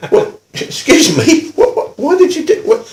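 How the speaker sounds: high, stammering disbelief; acted astonishment; flabbergasted. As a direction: splutter questions at a colleague. Stunned reaction to colleague's violence.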